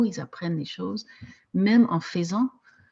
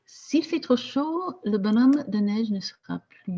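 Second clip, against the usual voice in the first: poem recitation; 3 semitones higher than usual. Shown as a demonstration. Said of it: "Comme dans le poème de Jacques Prévert".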